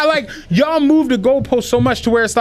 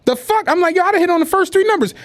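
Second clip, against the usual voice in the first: high, fast excited disbelief; high, fast amazed blurt in the store; stunned excitement; 10 semitones higher, faster than usual. Retold or imitated.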